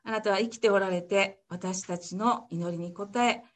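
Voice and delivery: gentle heartfelt prayer; closing prayer. Acted.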